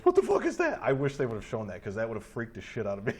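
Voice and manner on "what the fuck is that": high-pitched mock scream, louder; sudden high, loud yelp of alarm; retold scream. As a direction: shriek it as the panicked girl in the tent. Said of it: "gets out and running and screams".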